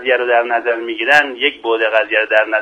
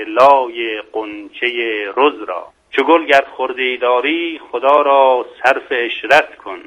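slow, measured verse reading; poetry recitation; slower than usual. Acted. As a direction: draw out each line of verse, pausing between phrases. Recites his humorous poem.

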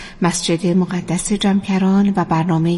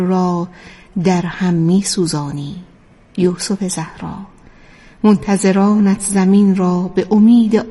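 measured, reverent recital with long pauses; devotional poetic recitation; slower than usual. Acted. Radio presenter addresses the awaited Imam in poetic prose, devotional recitation. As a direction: recite it as a heartfelt address, phrase by phrase.

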